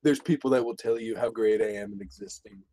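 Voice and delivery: Trump impression. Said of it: "You sound more like a surfer dude than Trump".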